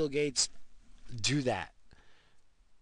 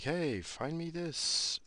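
bossy demand; 8 semitones higher, much slower than usual. Retold or imitated. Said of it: "I don't have a fucking person be like".

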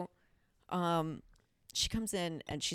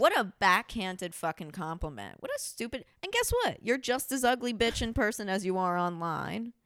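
angry rant; 4 dB louder than usual. Real, not acted.

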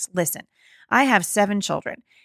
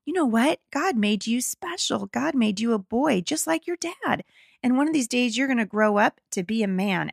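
gentle and loving; 4 semitones higher than usual. Retold or imitated. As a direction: ease him gently into it, like soothing a little boy. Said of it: "we just gently and lovingly said".

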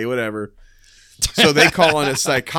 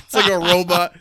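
high laugh breaking through the words; 9 semitones higher, 4 dB louder than usual. Real, not acted. Telling a friend the funny scene, laughing hard. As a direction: laugh it out, really amused.

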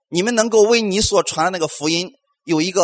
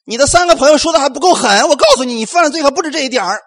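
loud, higher, fast mock condemnation; harsh condemning god; 5 semitones higher, 4 dB louder than usual. Imagined God condemning Job, loud mock harshness. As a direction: pile on the guilt, hammed up. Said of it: "神有没有说".

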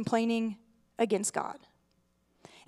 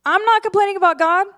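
higher, louder, fast indignant denial with a strained edge; exasperated protest; 7 semitones higher, 7 dB louder, faster than usual. Retold or imitated. A churchgoer insisting to the preacher, fast and exasperated. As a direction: practically shout it, fed up. Third take, most exasperated.

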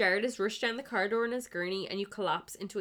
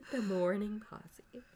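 whispered giggle; 2 semitones higher, slower than usual. Real, not acted. Echoing the phrase in a laughing whisper.

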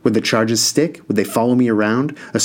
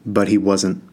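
deadpan; slower than usual. Acted.

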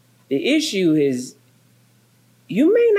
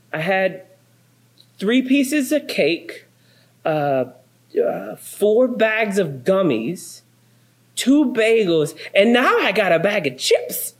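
put-on higher, slow, innocent child voice; little girl listing; 4 semitones higher than usual. Pastor imitates daughter listing church snacks, slow innocent child voice. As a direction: drag out the list like a small child.

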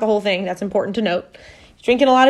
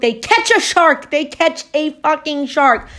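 higher, emphatic storytelling climax; excited disbelief; 6 semitones higher, 3 dB louder than usual. Real, not acted. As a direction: blurt out the unbelievable payoff.

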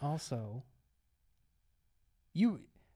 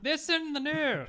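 laughing; 12 semitones higher, 5 dB louder, slower than usual. Acted. Mock news line.

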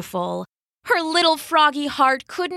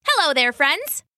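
cheerful greeting; 5 semitones higher than usual. Acted. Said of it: "she said".

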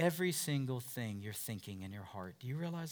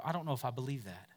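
doubting listener; 2 semitones lower, 3 dB quieter than usual. Retold or imitated. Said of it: "they go".

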